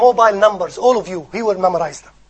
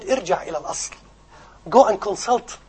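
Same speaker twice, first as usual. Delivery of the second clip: very polite; 8 dB quieter, much faster than usual. Retold or imitated. Boy politely correcting his sheikh, soft and courteous. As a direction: say it gently and deferentially, voice lowered. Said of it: "He said very politely".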